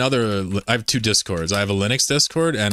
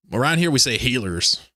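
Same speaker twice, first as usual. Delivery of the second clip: Southern accent; 4 semitones higher than usual. Shown as a demonstration. Streamer demoing a Southern American accent. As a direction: say it like a Southern US local. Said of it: "with a Southern American accent".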